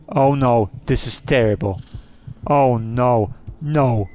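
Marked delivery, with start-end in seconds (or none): none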